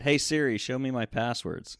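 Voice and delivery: asking the phone for passwords; voice command to phone. Shown as a demonstration. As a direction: speak clearly to Siri, a bit high. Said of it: "just go for it".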